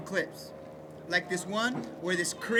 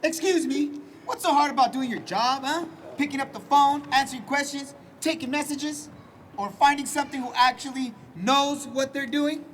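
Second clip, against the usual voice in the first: angry complaint; 4 semitones higher than usual. Retold or imitated. Retelling Auntie's complaint.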